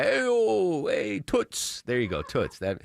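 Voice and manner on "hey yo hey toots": high, drawn-out catcall voice; construction worker catcaller. Retold or imitated. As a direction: holler it like a street catcaller. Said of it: "I'm trying to do my dad as a construction worker cat caller".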